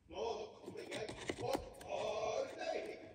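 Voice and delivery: troll voice. Acted. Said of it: "sa trollet".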